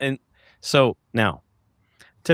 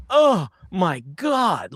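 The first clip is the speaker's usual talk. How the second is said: shocked excitement; 7 semitones higher, much slower than usual. Retold or imitated. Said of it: "who was all excited, but also in shock".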